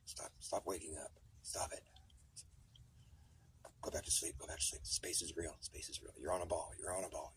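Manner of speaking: soft, fading hypnotic reassurance; mock lullaby soothing. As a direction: coax someone back to sleep. Lulling the awakening sleeper.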